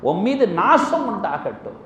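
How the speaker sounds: mildly heated retold rebuke; a touch of wrath on the curse; angry curse. Prophet cursing the man who challenged him, retold with mild anger. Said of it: "கோபமாக சொன்னார்கள்".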